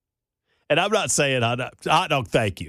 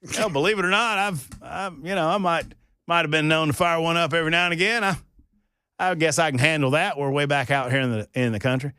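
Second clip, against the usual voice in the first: city guy voice; 4 semitones higher than usual. Retold or imitated. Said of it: "he goes".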